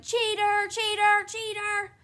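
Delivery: high, loud chanted accusation; accusing shout. A narrator's reading. Wife kicking the bathroom door, shouting accusingly. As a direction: shout it repeatedly in outrage. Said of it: "kicked at the door and shouted".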